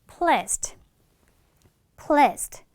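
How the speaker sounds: "pleased" with a barely released final d; weak final d. Shown as a demonstration. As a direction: say "pleased", softening the last d almost away. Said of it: "끝에 드 발음이 살짝 약하게".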